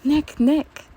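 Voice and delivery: calling out high and loud; excited call across the house; excited yell. A narrator's reading. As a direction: shout his name with glee. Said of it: "yelling in excitement".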